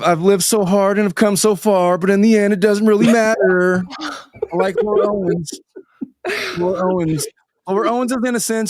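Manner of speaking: high, whiny mock impression; David Gingras. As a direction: push the voice up high to mimic him. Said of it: "That's my David Gingras impression".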